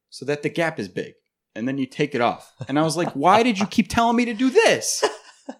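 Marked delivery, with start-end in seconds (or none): 3.1-5.0 laughing mock complaint.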